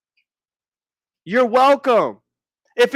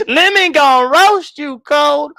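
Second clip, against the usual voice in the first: laughing; 4 semitones higher, 5 dB louder than usual. Retold or imitated. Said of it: "repeating commenter, laughing".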